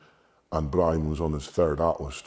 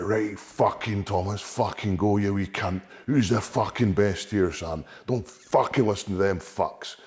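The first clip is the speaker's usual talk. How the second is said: higher, fierce retold rallying cry; pep talk yell; 4 semitones higher than usual. Brother psyching Tom up before the final, higher urgent rally. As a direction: fire him up backstage.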